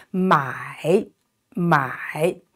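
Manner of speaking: 买 dipping down then rising, said twice; third tone mai. Shown as a demonstration. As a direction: dip 买 low, then let it rise. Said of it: "so down and rising".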